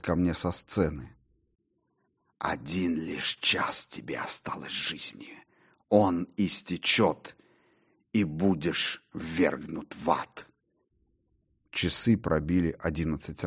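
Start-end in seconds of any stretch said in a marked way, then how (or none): 2.4-10.5 voice of conscience. Acted. Conscience speaks from the stage.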